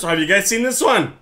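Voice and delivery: accidental jump up in pitch. Real, not acted. Streamer asking viewers if they've seen it, voice pitching up. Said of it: "I don't know why my voice pitched there".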